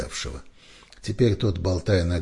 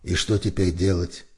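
usual speaking voice

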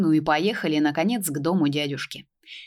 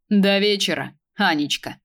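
languid purr; 2 semitones higher, 3 dB louder than usual. Acted. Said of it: "томно промурлыкал Захар".

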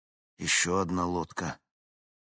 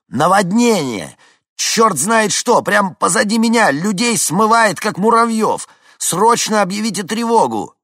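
very loud, high desperate shouting; panicked yelling; 12 dB louder than usual. A narrator's reading. Vincent yells at the calm dispatcher, panicked shouting. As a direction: scream the alarm over the radio.

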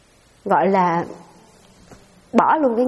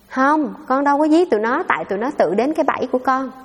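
cãi chày cối; 3 semitones higher than usual. Retold or imitated. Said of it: "ổng nói vậy nè".

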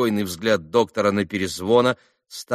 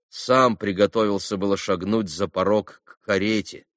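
usual speaking voice

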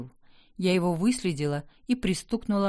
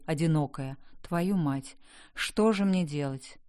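plain reading voice

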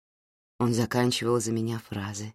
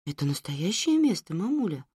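put-on child voice; 5 semitones higher than usual. Child asks mother about story.

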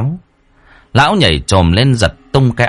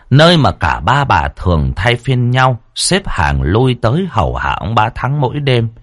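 plain reading voice

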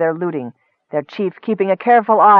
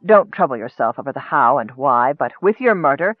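lightly voiced gloating dark wizard; menacing wizard. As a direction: savor the threat. Akar explains his plan.

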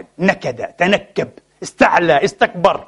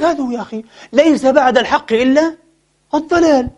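mocking the opponent's claim; 6 semitones higher than usual. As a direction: drag it out like a smug debater. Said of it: "قال لك".

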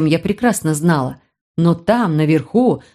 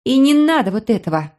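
irritated snap; 4 semitones higher than usual. Acted. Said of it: "бросила она с раздражением".

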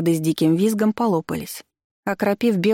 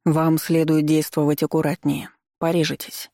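равнодушно. Acted. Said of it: "равнодушно бросил Карпов".

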